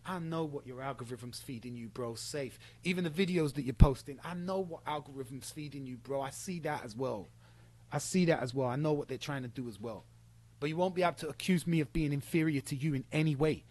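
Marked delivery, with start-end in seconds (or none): 0.0-10.0 quiet mock quote. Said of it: "you've said some shit that just".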